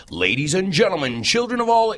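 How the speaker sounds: rising circus ringmaster call, lightly done; circus announcer. Retold or imitated. Host quoting a circus ringmaster, lightly voiced. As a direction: announce it like a ringmaster opening the show. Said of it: "this is one that they say at the circus".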